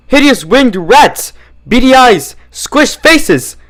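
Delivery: high, slow, horrified shrieking at the bats. Acted. Stallion seeing bats in his house, shrieks in horror. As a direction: recoil in disgust, voice cracking up high. Red Tape sees the bats.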